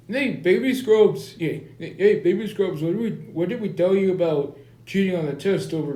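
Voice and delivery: lightly put-on Indian accent. Principal confronts Baby Scrubs over cheating, light Indian accent. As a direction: scold with a hint of an Indian accent. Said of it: "how you say this in an Indian accent".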